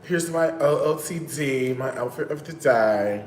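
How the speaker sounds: lightly voiced TikTok influencer; a hint of a chirpy influencer greeting; imitating TikTok guy. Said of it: "That's how he talks".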